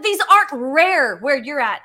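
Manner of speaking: an indignant, emphatic put-down. Retold or imitated. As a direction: put him in his place. Arguing with the miner.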